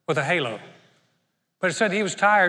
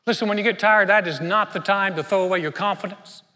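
preaching exhortation; 3 dB louder than usual. Real, not acted. Preacher exhorts the weary congregation.

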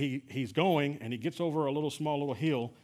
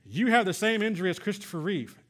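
insistent doctor; 6 semitones higher, 5 dB louder than usual. Retold or imitated. Doctor insists on grave diagnosis.

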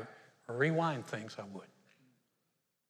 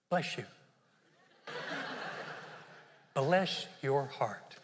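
sugary blessing; 3 dB quieter, much slower than usual. Retold or imitated. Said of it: "You just say".

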